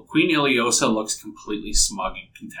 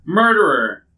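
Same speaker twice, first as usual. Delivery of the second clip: high, loud jeers at the prisoner; jeering crowd; 10 semitones higher, 3 dB louder, slower than usual. Acted. Mob booing the prisoner at the execution, jeering. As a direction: hurl each insult up high like an angry mob. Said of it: "people start to boo".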